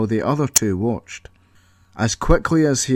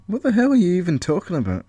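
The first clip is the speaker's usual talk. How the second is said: laughing disbelief; 7 semitones higher, faster than usual. Acted. Colin laughing at Paul's rage.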